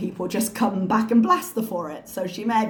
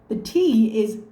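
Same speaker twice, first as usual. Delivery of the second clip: higher, louder, slowing exasperation; exasperated; 4 semitones higher, 4 dB louder, much slower than usual. Real, not acted. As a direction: build to an exasperated outburst. Exasperated outburst.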